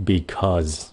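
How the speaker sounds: "Because" with a voiced z at the end; Z sound. Shown as a demonstration. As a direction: let the end of "Because" buzz as z. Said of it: "nếu các bạn nói chậm nó là âm Z".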